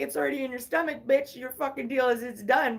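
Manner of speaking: snide inner voice. Retold or imitated. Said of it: "In my right mind".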